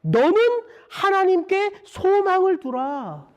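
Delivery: mild exhortation, rising in pitch, slowing at the close; crying out to oneself. Retold or imitated. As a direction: urge your own soul to hope. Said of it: "자기 자신에게 외쳐요".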